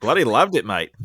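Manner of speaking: put-on a light Australian accent, barely shifted; understated Australian accent. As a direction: toss it off in a casual Australian accent. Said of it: "Ben will do it in his Australian accent".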